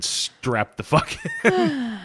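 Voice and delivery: high, slow drawn-out warning; mock dramatic warning. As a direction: stretch it out, way up high. Warning about a weird show.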